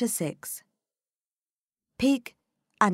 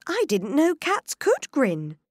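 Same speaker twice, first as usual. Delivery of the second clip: put-on higher girl's voice; young Alice voice; 10 semitones higher, 6 dB louder than usual. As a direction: wonder it like a curious girl. Alice speaks.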